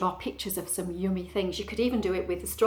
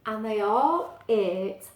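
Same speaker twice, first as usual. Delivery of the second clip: slow, savoured storybook ending; measured storytime narrator; story narration; 5 dB louder, slower than usual. Acted. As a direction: linger on the happy ending. Reads story aloud.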